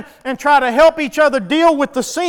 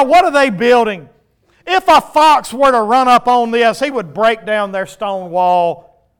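scornful jeer; 5 dB louder than usual. Acted. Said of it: "Tobiah the Ammonite was beside him".

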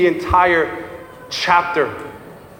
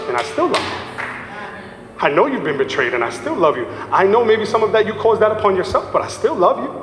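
God's tender reassurance; faster than usual. Pretend. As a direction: comfort her gently, over and over.

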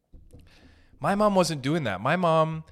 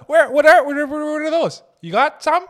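shrill mock wail of hurt feelings, very high; mock crying; 12 semitones higher, 10 dB louder, slower than usual. Mocking commenters' feelings with a high fake wail. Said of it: "rip me up in the comments with feelings".

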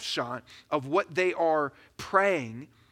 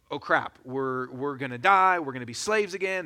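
mock panic; 2 semitones lower than usual. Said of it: "now they're freaking out".

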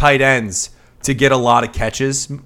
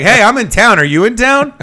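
high, breezy mock-casual hello; casual ex texting; 9 semitones higher, 6 dB louder than usual. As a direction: play it like a too-casual ex. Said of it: "And you're just like".

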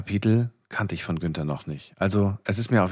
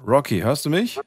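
raised, higher voice over a bad line; to someone hard of hearing; 6 semitones higher, 4 dB louder than usual. Real, not acted. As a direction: call out so a poor line carries. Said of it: "ich höre dich nicht so gut". (lauter und höher für eine schlechte Leitung)

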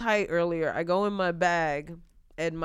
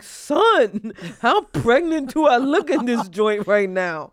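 louder, higher clapback; incredulous comeback; 4 semitones higher, 5 dB louder, slower than usual. Retold or imitated. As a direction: fire it back, offended and loud. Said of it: "And I was like".

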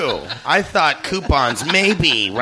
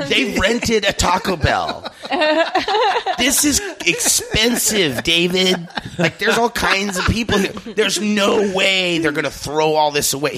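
excited pleading; 6 semitones higher than usual. Retold or imitated.

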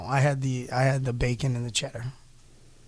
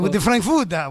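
imitating a German-Spanish twang, higher and louder; mock German-Spanish accent; 5 semitones higher, 4 dB louder than usual. Mimicking a friend's frankfurter, mock German-Spanish accent. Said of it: "hit it with the German, but a little Spanish".

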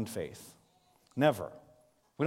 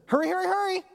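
put-on high, sweet child's sing-song; little daughter's sweet voice; 5 dB louder than usual. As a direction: imitate a small girl saying it endearingly. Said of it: "in her sweet, high-pitched voice".

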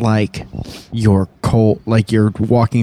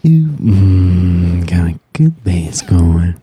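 sexy voice; 2 semitones lower, much slower than usual. Pretend. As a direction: lay on the sultry bedroom voice. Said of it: "Can you say that in a sexy voice?".

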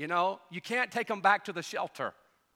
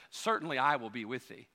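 calm assurance; 6 semitones lower, 4 dB quieter than usual. Retold or imitated. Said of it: "I love the way he says this".

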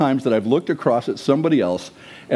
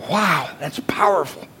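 whispered awe. Real, not acted. Preacher's awed aside.

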